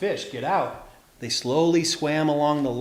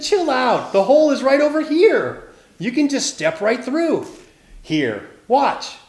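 breezy shrimp; 9 semitones higher, 5 dB louder than usual. A narrator's reading. Shrimp shows the way out.

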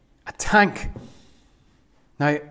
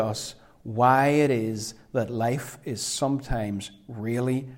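fading to whisper; 3 semitones lower, 5 dB quieter than usual. Real, not acted. Intimate close of sermon.

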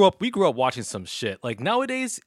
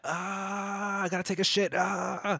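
high, strained parody of power-up screaming; mocking anime scream; 10 semitones higher, slower than usual. Skeptic mocking Dragon Ball episodes, strained high scream. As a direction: groan and strain through it, mock-heroic. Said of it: "literally like that".

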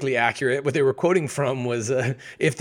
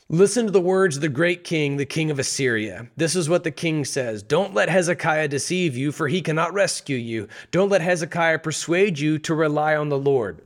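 taunting emissary; 3 semitones higher than usual. Acted. Emissary taunting the besieged city.

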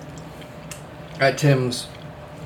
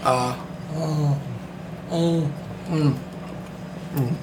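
chewing while talking; mouth full; 8 dB quieter, slower than usual. Real, not acted. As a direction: talk through a bite of food. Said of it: "I'm chewing".

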